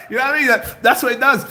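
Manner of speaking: high, loud, laughing speech; cracking up at your own bit. Real, not acted. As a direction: talk through a fit of laughter.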